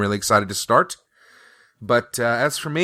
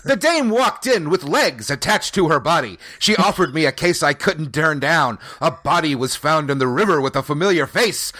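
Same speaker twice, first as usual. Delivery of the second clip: higher hard-boiled narration; noir detective; 5 semitones higher than usual. Pretend. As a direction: narrate like a pulp private eye.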